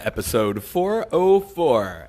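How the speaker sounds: slow, drawn-out announcer read; show announcer intro. Acted. Announcer opens the lunch show and presents its host, slow announcing.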